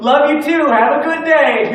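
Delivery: high, loud Southern farewell, stretched out; imitated Southern lady. Cabin lady replying without a beat, loud imitated Southern cheer. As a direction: call out a cheery Tennessee goodbye. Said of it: "without missing a beat, she goes".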